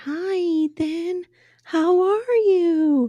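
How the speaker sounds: high, very slow, almost no voice left. Imitating Mariah greeting Ethan: imitating Mariah's voice with no voice left. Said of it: "she talks like this".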